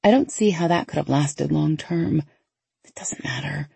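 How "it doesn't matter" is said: muttered. Acted. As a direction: mutter it, brushing it off. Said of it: "I mutter".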